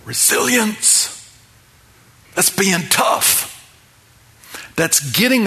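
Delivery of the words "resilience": resilience drawn out slowly and high, re-SIL-ience, no -cy; resilience, said slowly, pitched up; correct resilience. Shown as a demonstration. Preacher correcting the coach's word, resilience said slowly. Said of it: "He doesn't say resilience".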